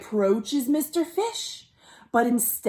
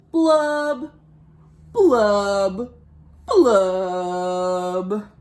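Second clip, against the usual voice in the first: sad pouty fish blubbing; drawn-out mopey fish blubs; 4 semitones lower, 3 dB louder, much slower than usual. Acted. Storyteller voicing the glum fish, mopey blubs.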